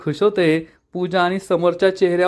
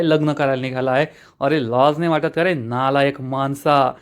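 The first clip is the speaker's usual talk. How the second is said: mild irritated scolding; Adhalrao, irritated; 2 semitones lower than usual. Retold or imitated. Elder berates the suitor for buying a bride, mildly angry. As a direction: scold in a slightly lowered storytelling voice. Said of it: "Adhalrao चिडून म्हणतात".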